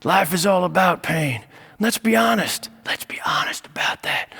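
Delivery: put-on hushed confiding old man; mock Biden leaning in to whisper; Joe Biden impression. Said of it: "then Joe Biden is like".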